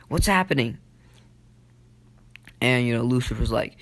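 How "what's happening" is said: higher-pitched worried question; mock alarm. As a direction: imitate a rising panic, lightly acted. Naruto in alarm at Sakura's collapse.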